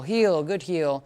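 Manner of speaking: slow, drawn marker words; slow praise to the dog. Shown as a demonstration. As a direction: stretch each word out slowly. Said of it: "using a lot more healing".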